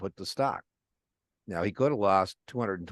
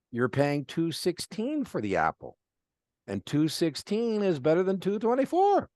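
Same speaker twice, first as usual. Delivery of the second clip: enthusiastic pitch; 4 semitones higher than usual. Retold or imitated. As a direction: pitch it to Mark with bright energy. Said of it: "I said".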